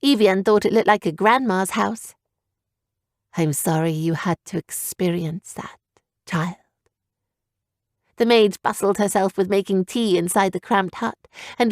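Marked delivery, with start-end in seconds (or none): 3.4-6.6 put-on softer lower old woman; lightly voiced kindly old mage; gentle old mage. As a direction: comfort her gently. Old mage consoles Evian.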